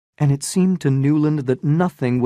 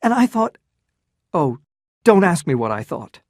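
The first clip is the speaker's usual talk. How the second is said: anguished outburst; 6 semitones higher, 5 dB louder than usual. Acted.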